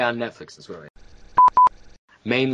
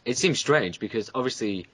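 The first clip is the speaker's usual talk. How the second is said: robot voice; 3 dB quieter than usual. Real, not acted. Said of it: "Oh, you robot again".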